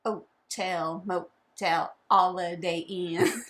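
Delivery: "Hotel" and "holiday" without their H; dropped H. Pretend. Playing along with the joke, "holiday" with no H. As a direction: lose the H: "'otel", "'oliday". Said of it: "like, no H".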